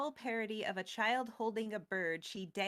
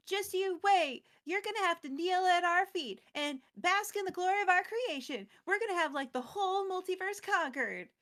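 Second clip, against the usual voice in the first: mock-shout it like a Disney villain; retold villain shout; 9 semitones higher, 4 dB louder than usual. Norn shouting after the fleeing Elspeth, high loud gloat. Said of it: "Elesh Norn shouts out stuff like".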